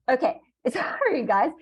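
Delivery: laughing through an apology. Real, not acted. Laughs after sneezing mid-lesson.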